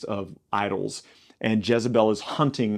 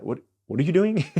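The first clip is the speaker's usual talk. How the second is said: higher, stammered mock disbelief; incredulous questioning; 6 semitones higher than usual. God to people who had clear instructions, incredulous. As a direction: question them in baffled, raised pitch.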